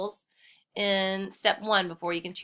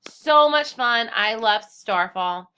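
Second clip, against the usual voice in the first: excited; 8 dB louder, much slower than usual. Real, not acted. Teacher enthusing about the site.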